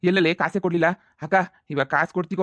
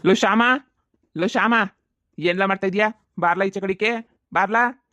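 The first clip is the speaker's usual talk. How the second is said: calling out; 3 semitones higher than usual. Acted. Moneylender summoning Shyama from the house, drawn-out call. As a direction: call him out, slow and insistent. Lender calls Shyama again.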